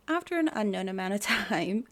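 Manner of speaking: giggling through the phrase; can't keep a straight face; laughing. Real, not acted. Repeats the phrase while laughing.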